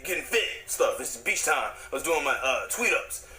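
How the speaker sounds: normal talking voice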